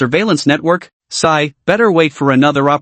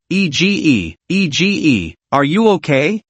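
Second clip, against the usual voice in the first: anxious friend. A narrator's reading. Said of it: "Qi Xiaohao's anxious voice".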